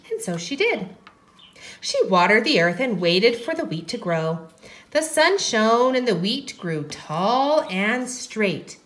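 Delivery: gentle, measured storytelling; story narration. A narrator's reading. Teacher tells how the wheat grew, gentle narration. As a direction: tell it to little ones.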